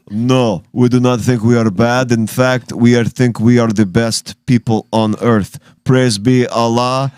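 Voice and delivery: a hint of a foreign spokesman, deadpan; mock Taliban accent. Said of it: "You're, you're the impressionist".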